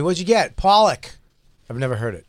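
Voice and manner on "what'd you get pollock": mock customer voice. Mock exchange about ordering pollock.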